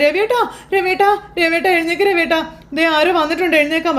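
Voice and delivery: high, panicked calls to wake him; frantic calls. Acted. Wife desperately waking her husband over the ghost, panicked. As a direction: shake him awake with your voice.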